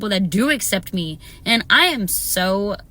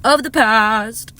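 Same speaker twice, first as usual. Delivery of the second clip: louder, drawn-out finish; loud slow; 3 semitones higher, 6 dB louder, slower than usual. Real, not acted. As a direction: belt it slowly.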